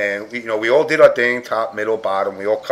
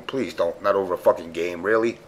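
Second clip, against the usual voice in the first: pleading; 5 semitones lower, 6 dB quieter than usual. Retold or imitated. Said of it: "I'm going".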